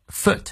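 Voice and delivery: FOOT with a short u vowel. Shown as a demonstration. Teacher modelling foot, short oo sound. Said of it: "foot是短物".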